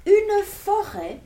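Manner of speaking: slow, hushed storytelling; story narration. A narrator's reading. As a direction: draw the children into the magic. Lecture d'album aux enfants. (narration lente et mystérieuse)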